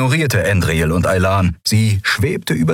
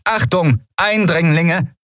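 high-pitched robotic warning, drawn out at the end; stiff, high automated alert; rasping machine alarm; 10 semitones higher, slower than usual. A narrator's reading. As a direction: announce it like a security machine. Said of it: "schnarrte die Kugel".

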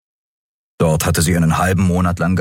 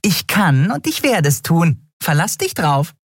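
high tiny creature voice, gloating; little winged Nelen gloating over Miko; nasty grin; 10 semitones higher than usual. Acted.

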